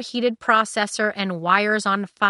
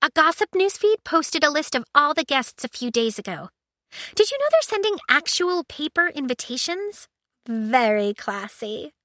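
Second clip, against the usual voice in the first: high ship AI voice; 7 semitones higher than usual. A narrator's reading. Aiko voiced.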